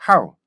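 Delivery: "how" in one short falling glide; quick punched "how"; correct English how. Shown as a demonstration. Learner feels it works now, correct "how". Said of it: "이제 잘 되는 것 같아".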